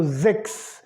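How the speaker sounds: sechs said "zeks"; German S as Z. Shown as a demonstration. Teacher applying the rule to six, S as Z. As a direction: start sechs with a buzzing Z. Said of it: "sempre vai ter som de Z".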